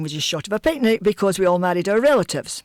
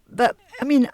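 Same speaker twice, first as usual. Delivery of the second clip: lightly voiced child, pitched up; mildly acted higher-pitched protest; 4 semitones higher than usual. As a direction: argue back like a baffled child. Child protesting to mother, retold.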